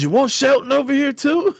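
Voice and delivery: high, eager teasing offer; imitating Angel. Drunk Angel offering to call Shelton over, high eager tease. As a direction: push it up high like she would drag him over. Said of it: "And Angel goes".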